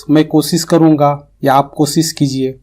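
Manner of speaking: each "کوشش" said kosis; koshish mispronounced. Shown as a demonstration. Teacher giving example sentences of the error, "کوشش" mispronounced as kosis. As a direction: use s instead of sh in "کوشش" within the sentences. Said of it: "اگر کوئی آپ کے سامنے یہ بولے".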